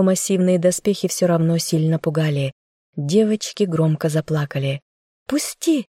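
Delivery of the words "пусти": a much higher, strained cry; desperate cry. A narrator's reading. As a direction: wrench free with a sharp plea. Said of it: "крикнула я".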